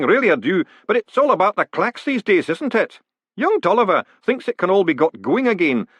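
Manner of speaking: put-on high-pitched old master, gently discouraging; resigned worshipful master. A narrator's reading. Worshipful master talking of the old place, resigned. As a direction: reminisce in a high character voice.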